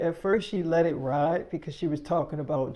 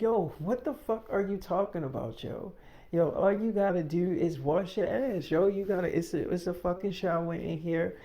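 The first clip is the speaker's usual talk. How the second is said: heated retort; 4 semitones higher than usual. Retold or imitated. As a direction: fire back, outraged at the accusation. Quarrel over smelling bad.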